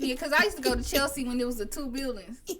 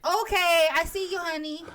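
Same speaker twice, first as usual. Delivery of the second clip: salon worker's voice; 5 semitones higher than usual. Retold or imitated. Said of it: "nail salon".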